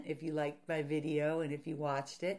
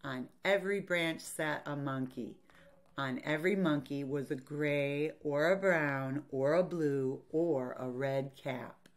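measured picture-book reading; story narration; 3 dB louder than usual. A narrator's reading. Teacher reads a picture book to children, story narration. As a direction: read to children, pausing between phrases.

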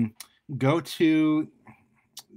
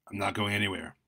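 a touch lower and softer, lightly menacing; 3 semitones lower, 4 dB quieter than usual. Acted. Masked attacker answering Carl, lightly low voice. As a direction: drop the voice a little, calm threat. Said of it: "the low voice responded".

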